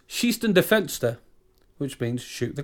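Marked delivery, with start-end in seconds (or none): 0.1-1.2 German command. Retold or imitated. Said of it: "turns to his German sidekick and goes".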